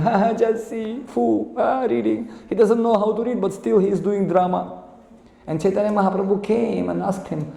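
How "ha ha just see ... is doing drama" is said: higher-pitched jeering with a mock laugh; mocking laughter. Onlookers jeer at the illiterate man reading, mocking laughter. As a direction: laugh at him as you scoff. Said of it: "everybody laughing at him".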